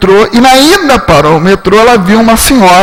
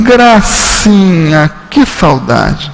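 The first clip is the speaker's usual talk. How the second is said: tender greeting; 3 semitones lower, much slower than usual. Retold or imitated. Mother welcoming Gracinha with open arms, slow and tender. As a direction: stretch it like arms opening for a long-lost daughter.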